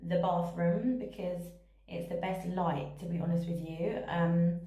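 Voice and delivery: echoey bathroom sound; speaking in a tiled bathroom. Real, not acted. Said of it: "Sorry about the echo in".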